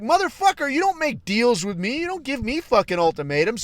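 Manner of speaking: heated rant that starts high and loud; angry rant. Retold or imitated. A user telling the chatbot it can't give ultimatums, angry. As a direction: lay down the law, furious.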